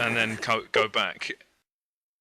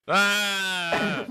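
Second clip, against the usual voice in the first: mock scream; 7 semitones higher, 4 dB louder than usual. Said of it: "you scream".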